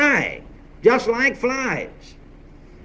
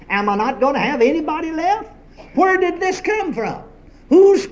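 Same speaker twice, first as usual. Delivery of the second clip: higher, pleading questions to God; anguished pleading; 5 semitones higher than usual. Retold or imitated. Pastor retelling a grieving minister's plea to God, higher anguished pleading. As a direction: cry out the questions, half-voiced grief. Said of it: "weeping, sobbing his heart out".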